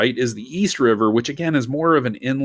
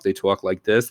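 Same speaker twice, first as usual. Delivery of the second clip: Brooklyn Italian accent, "talk" said like "twalk"; a light demo of the Brooklyn accent. Shown as a demonstration. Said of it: "which is why when they talk".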